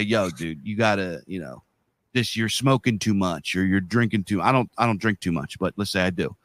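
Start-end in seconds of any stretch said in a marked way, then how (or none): 0.0-4.4 gentle concern. Retold or imitated. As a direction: ease in gently like a worried buddy. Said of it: "come at it from a different angle and you say".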